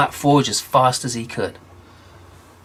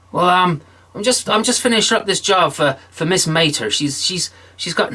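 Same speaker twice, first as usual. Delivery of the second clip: higher, hurried stalling; stalling again; 5 semitones higher than usual. Acted. John stalling Death, higher and hurried. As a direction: fumble your excuse.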